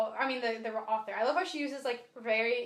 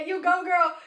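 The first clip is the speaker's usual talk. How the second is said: loud, higher-pitched retold cheer; excited reader egging on a heroine; 6 semitones higher, 8 dB louder than usual. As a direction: cheer her on, raised voice. Retells cheering the character on.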